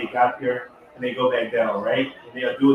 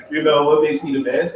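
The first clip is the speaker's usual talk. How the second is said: laughing; 3 semitones higher, 4 dB louder than usual. Real, not acted. Laughs at own boast.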